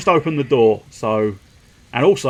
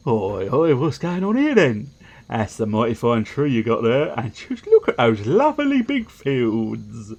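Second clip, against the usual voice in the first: lightly voiced nosy visitor with swooping pitch; a hint of a busybody sizing up the place; nosy visiting character; 2 semitones higher than usual. Villager calls out "what's going on here then", lightly voiced nosy visitor.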